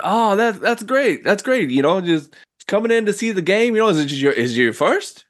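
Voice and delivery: high, brash character voice; gangster greeting. Acted. Host introducing himself to the newcomer, high and brash. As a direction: come on friendly and pushy like a mobster. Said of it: "he's like".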